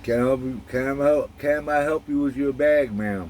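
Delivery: repeated on request, halting and courteous; polite gentleman repeat. Shown as a demonstration. Husband re-enacts meeting, polite courteous offer. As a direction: say it again for her, politely. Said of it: "Say it again".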